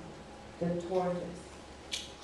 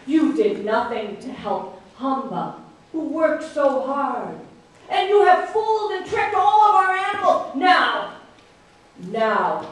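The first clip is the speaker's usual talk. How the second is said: stern king; 4 dB louder than usual. Acted. Outraged king judging the thief before all animals. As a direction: pronounce a grave sentence.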